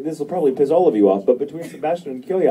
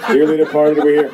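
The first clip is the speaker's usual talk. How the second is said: eerie laugh voice; 4 semitones higher, 8 dB louder than usual. Retold or imitated.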